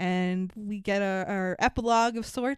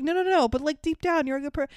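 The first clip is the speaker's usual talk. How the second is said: quoting with a raised pitch; mock reassuring; 5 semitones higher, faster than usual. Friend consoling a guy, a mock reassuring tone. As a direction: talk him round, half-mocking. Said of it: "He's like".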